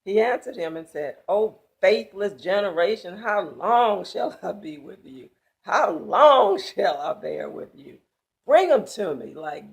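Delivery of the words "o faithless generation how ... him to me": loud, exasperated rebuke of the crowd. Acted. Jesus rebuking the faithless crowd, loud and exasperated. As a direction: let the frustration boom out.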